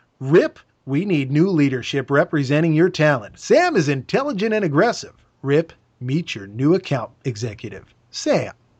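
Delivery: film voiceover narrator announcer delivery. Reading an intro line the way the voiceover guy says it, imitating a voiceover guy. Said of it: "There's a voiceover guy that comes on".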